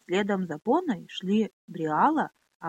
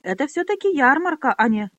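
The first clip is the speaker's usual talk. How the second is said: loud protest; 6 semitones higher, 7 dB louder than usual. Acted. Trader protesting the brawl.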